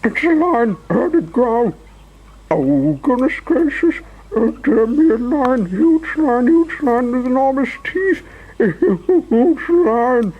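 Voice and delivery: very high, panicky shriek; shrieking Mister Jelly. A narrator's reading. Mister Jelly thinks a huge lion will bite him, shrieking. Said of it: "shrieked Mister Jelly".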